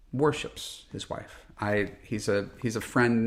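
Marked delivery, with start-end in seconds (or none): 0.1-1.4 whispered repeat. Real, not acted. Emphatic repeat about grieving friend.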